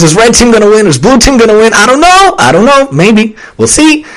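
high, breathless show-host drama; dramatic TV suspense. Retold or imitated. Mocking reality show suspense, high and hammed-up. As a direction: ham up the cliffhanger tension.

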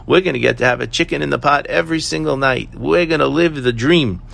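put-on happy, excited kids. Happy kids tell Mom about meat every night, excited. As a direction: gush like children telling Mom their dream. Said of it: "the kids are so happy and say".

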